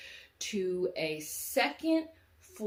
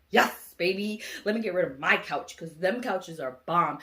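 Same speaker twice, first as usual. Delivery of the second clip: delighted; 6 dB louder than usual. Retold or imitated. Delighted at free new couches.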